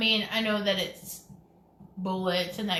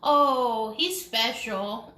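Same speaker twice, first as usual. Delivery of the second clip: mock Southern sweetness; much slower than usual. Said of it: "She was like".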